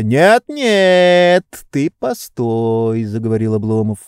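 high, slow, reproachful lecturing; a pampered master scolding his servant; indignant master. A narrator's reading. Oblomov stops Zakhar.

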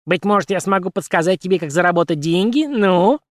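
lightly squeaky puppet voice; a hint of puppet squeak. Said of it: "пропищала кукла".

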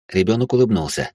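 ordinary delivery, nothing marked

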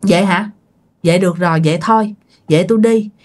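mildly deflated, in short halting phrases; a touch of dejected giving-in; imitated crestfallen. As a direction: let the wind go out of you, resigned. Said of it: "ổng mới tiêu nghỉu nha".

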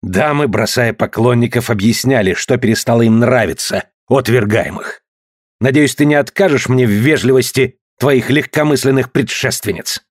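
plain reading voice

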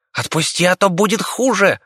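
high squeaking rat warning; little rat puffing himself up; squeaky warning. Acted. The rat warns the monster again, high squeaky threat.

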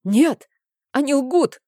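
high, loud panicked cry; frantic denial. A narrator's reading. Cornered uncle screams denial at the priestess. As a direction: blurt it out in desperate panic.

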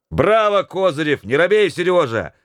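high, cheering shouts; shouts from the crowd. Acted. Crowd cheering the hesitant mate on, shouting. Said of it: "послышались крики".

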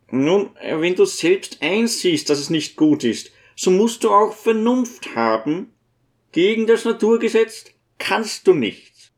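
high-voiced old priest searching for comfort; gentle old priest, consoling. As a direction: reason mildly with a grieving friend.

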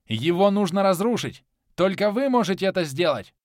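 loud commanding order; rally them to smash it; roaring rallying speech. A narrator's reading. Hero commands the dwarves.

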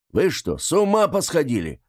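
high, outraged cry; man behind the door yells at the women, indignant; indignant shout. Acted. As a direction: shout it in disbelief. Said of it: "раздался возмущённый крик из-за двери".

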